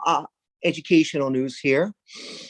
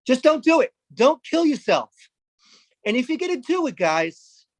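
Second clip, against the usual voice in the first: mock urgent plea; 7 semitones higher than usual. Urging audience not to.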